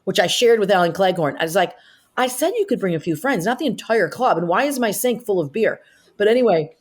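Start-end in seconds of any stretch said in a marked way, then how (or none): 2.2-5.8 exasperated complaint. Retold or imitated. Scolding fiance about crowded dressing room.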